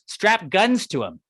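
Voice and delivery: mock idea. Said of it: "now they're like".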